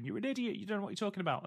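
high, scornful mock heckler voice; mocking critics. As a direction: sneer it like an online critic. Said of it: "a lot of people going".

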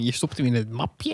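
a hint of a doddering old man. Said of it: "Dan ben ik echt zo'n hele oude man".

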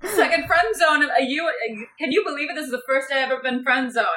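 high, incredulous mimicry; mock disbelief. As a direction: imitate her making a big deal of it. Mimics her repeating the boast.

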